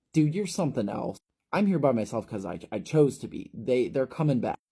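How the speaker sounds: put-on anxious boy snapping at a pest; irritated outburst. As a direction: shove him off with words. Ephraim snapping at Shelley.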